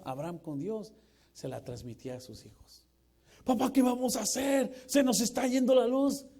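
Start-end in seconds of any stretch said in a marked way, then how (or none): 3.4-6.2 put-on high, loud panicky kid voice; panicky child. Preacher acting a child begging dad, high loud panic. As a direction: whine like a scared little boy.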